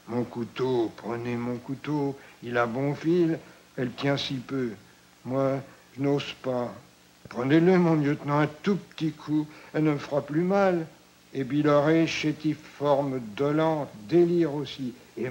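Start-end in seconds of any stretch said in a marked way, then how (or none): 0.1-10.9 pleading. Acted. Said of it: "d'une voix suppliante".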